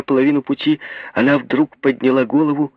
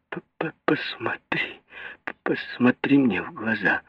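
stuttered, much softer and very slow; stammering mutter; 7 dB quieter, slower than usual. A narrator's reading. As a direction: stumble over each word in shock. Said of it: "пробормотала она, заикаясь".

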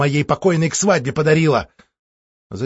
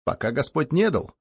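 flustered; 2 semitones higher, 3 dB quieter than usual. Acted. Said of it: "растерянно ответил".

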